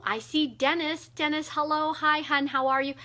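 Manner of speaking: light up and greet Dennis; calling hello to a viewer; cheerful greeting. Real, not acted. Greeting a viewer in live chat.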